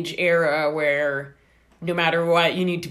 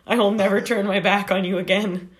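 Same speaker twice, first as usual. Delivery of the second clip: mock repentance; 4 dB louder than usual. Fan begging a singer's forgiveness, mock repentant. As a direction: beg your idol's pardon in pretend devotion.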